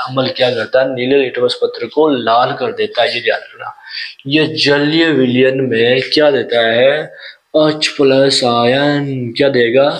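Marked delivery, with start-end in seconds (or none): 4.3-9.3 slow dictation. Shown as a demonstration. Teacher dictates the key answer.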